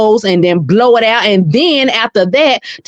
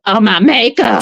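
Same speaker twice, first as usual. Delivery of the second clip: lightly stuffy echo, normal pace; a touch of a blocked nose; repeating the congested mimic; 3 semitones higher than usual. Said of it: "sounded like Shamar".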